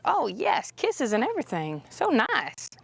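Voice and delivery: high doting voice to the horse. Real, not acted. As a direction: dote on him like a pet. Horse gives kisses.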